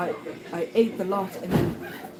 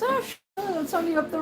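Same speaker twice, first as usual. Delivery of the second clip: casual local; 10 semitones higher than usual. Retold or imitated. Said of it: "He says".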